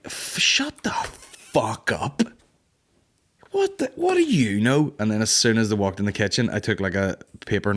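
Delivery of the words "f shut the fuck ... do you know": put-on defiant kid. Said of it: "And I was like".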